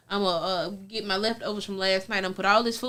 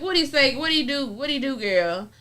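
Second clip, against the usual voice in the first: nosy; 5 semitones higher, 3 dB louder than usual. Retold or imitated. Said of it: "I'm like".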